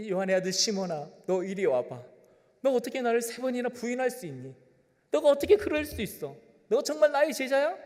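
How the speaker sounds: hammed-up rebuke of a disciple; mock scolding Jesus. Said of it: "뭐 이렇게 하지 않으셨어요". (꾸짖는 흉내)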